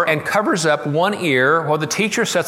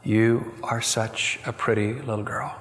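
soft, lowered, tender near-whisper; retold whisper; 3 semitones lower, 5 dB quieter than usual. Teacher whispering praise to the deformed girl, hushed. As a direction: hush it like a kind secret. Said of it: "Missus Leonard whispered".

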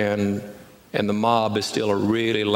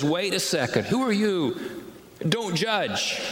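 a hint of an indignant critic, higher; mock objecting voice; 7 semitones higher than usual. Preacher voicing the church's inner critic, mildly indignant. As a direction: lightly voice the naysayer. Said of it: "the voice that says".

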